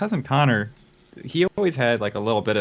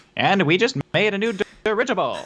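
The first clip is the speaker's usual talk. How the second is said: put-on higher-pitched old transatlantic movie accent; 9 semitones higher than usual. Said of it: "that weird movie speak".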